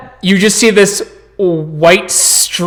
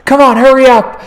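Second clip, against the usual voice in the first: higher, urgent call; Steven hurrying them; 7 semitones higher, 3 dB louder than usual. Acted. Man urging frightened homeless people to pack, higher urgent call. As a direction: chivvy them along briskly. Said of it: "as Steven's like".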